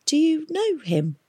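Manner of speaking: high, puzzled question; ask, baffled; confused. A narrator's reading. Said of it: "asked Tom, confused".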